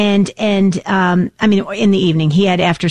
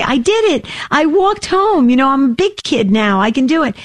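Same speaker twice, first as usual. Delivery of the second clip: put-on excited child; 4 semitones higher than usual. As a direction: say it like a proud little boy. Son's proud words retold.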